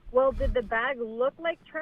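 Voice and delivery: slow, mildly pointed retold question; passive aggressive. Wife retells husband's deflecting question about the bag, passive aggressive. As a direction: needle lightly with a drawn-out question. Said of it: "That's passive aggressive".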